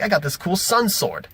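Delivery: mildly giddy mock voice; delighted player. Imitating Sonya delighted with the sword.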